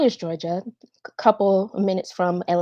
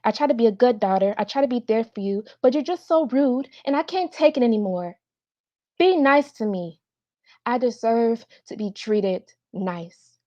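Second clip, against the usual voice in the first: earnest daughter confronting her mother; heartfelt audition monologue, measured with pointed pauses; dramatic monologue; 14 semitones higher than usual. Acted. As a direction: plead your case to Mom, hurt and insistent.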